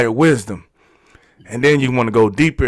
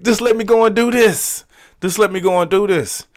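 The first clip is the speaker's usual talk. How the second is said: high-pitched retold pleading; insistent plea; 9 semitones higher than usual. Pleading with himself to just go do it, high insistence. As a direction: say it high, easing down on the repeat.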